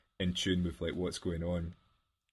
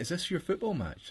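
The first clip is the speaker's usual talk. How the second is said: much higher, knowing put-on voice; mock suspicious question; 11 semitones higher than usual. Girlfriend realising he is checking on the match, high mock voice. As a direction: catch him out, pitched way up.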